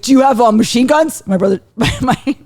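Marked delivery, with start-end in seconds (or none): 0.0-1.2 put-on higher, louder kid asking a question; eager nephew. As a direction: imitate an excited child's earnest question. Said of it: "And he's like".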